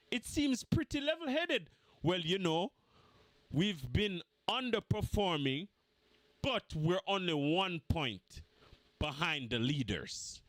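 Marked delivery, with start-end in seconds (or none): 2.0-10.4 lightly voiced calm manager; measured press-conference tone, a touch lower; mock manager at the presser; imitating the manager. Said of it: "my manager's press conference".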